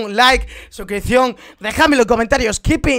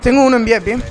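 loud urgent callout; shouting orders over battle; 6 dB louder, faster than usual. Real, not acted. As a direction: shout the enemy spot. Aviso de enemigo en partida. (aviso gritado al equipo)

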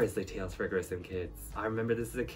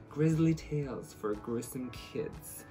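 spooky announcer; 2 semitones higher, much slower than usual. Acted.

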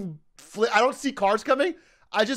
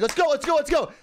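higher-pitched mock coach urging; trainer urging on; 6 semitones higher than usual. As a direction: push someone on like a drill coach. Retold trainer urging him on.

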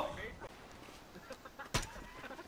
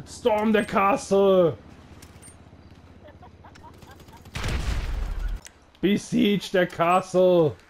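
mock battle cry; 6 semitones lower, slower than usual. Mock commander rallying troops.

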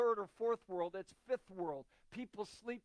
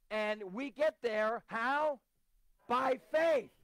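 loud, raised call and answer; emphatic preaching; 3 semitones higher, 6 dB louder, slower than usual. Real, not acted. Preacher rousing congregation with refrain, emphatic preaching. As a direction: ring out the refrain with deliberate pauses.

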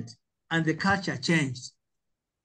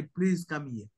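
a gentle, courteous ask, a bit softer; polite request; 4 dB quieter, slower than usual. Retold or imitated. Tanzanian teacher showing the polite way to ask, gently courteous. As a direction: ask nicely, the respectful Tanzanian way. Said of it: "in our tradition".

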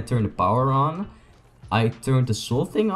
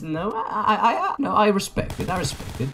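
laughing; 11 semitones higher than usual. Real, not acted. Laughing falsetto after voice acting comment.

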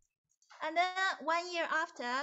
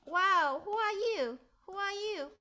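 a higher, louder burst of amazement; amazed; 7 semitones higher, 7 dB louder, slower than usual. Acted. Musician amazed the woodcutter understands, mildly surprised. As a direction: gasp it out in wonder, then settle.

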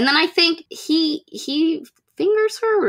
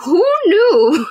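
laughing, slow, amused realization; half-laughed mock surprise; mock delighted surprise; 4 dB louder, slower than usual. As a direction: play it like a happy discovery, laughing.

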